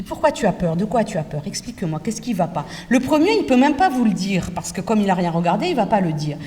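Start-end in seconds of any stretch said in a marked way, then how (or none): 0.0-2.6 gentle reassurance. Shown as a demonstration. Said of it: "Je dis".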